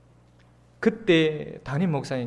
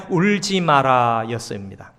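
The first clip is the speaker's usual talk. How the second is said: gentle quote; 3 semitones lower, 5 dB louder, slower than usual. Acted. Pastor quoting Jesus to the grieving mother, slow and tender. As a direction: lay the words down gently, slowly.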